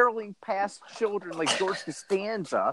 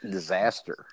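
much lower, softer "Disaster"; mock doom; 10 semitones lower, 4 dB quieter than usual. Cohost echoing the headline in a mock-doom voice. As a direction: intone it like a doom trailer. Mock-ominous echo of news phrase.

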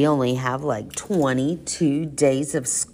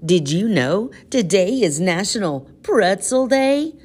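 excited; 5 semitones higher than usual. Acted. Gleeful announcement.

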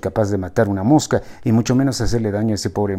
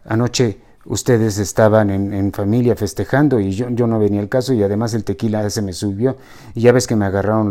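stammering. Acted. Ricardo excusing himself to his girlfriend, stammering. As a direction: stumble over the excuse. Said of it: "Ricardo tartamudeó más que de costumbre".

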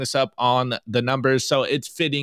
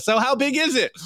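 put-on girl's voice; 9 semitones higher than usual. Girl's tweet read aloud.

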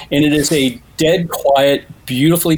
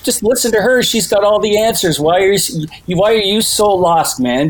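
pleading with the screen; 6 semitones higher than usual. Retold or imitated. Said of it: "you're kind of going like".

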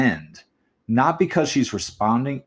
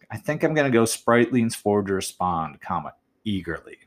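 separating "eagerly" so it sticks the landing; pause before eagerly. Shown as a demonstration. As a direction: let eagerly land on its own after the comma. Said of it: "I wanna separate the word eagerly from the rest".

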